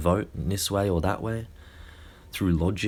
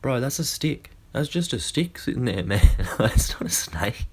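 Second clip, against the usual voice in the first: higher, chuckling dismissal ending in a whispered laugh; the mate laughs at his panicking friend; amused friend; 4 semitones higher than usual. Retold or imitated. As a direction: laugh off your friend's fear. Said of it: "his mate just starts laughing and laughing".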